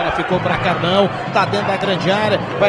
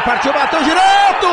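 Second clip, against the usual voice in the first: explosive goal commentary; 6 semitones higher than usual. Real, not acted. Shot on goal.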